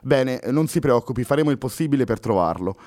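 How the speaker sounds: calm her, then ask the last detail; officer finishing the interrogation; reassuring policeman. Acted. Policeman wraps up questions.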